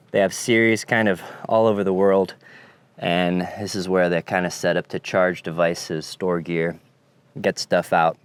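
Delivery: talking with candy stuck to the palate; chewy candy stuck on the roof of the mouth. Real, not acted. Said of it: "If I sound a little funny, it's 'cause I have a Haichu stuck to the roof of my mouth".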